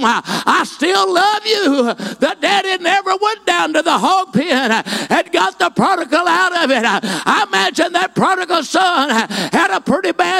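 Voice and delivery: high, ringing, full-force pulpit cry; impassioned preaching. Acted. Preacher calling the lost home, impassioned full-force preaching. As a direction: preach it out to the back pew, rising and pleading.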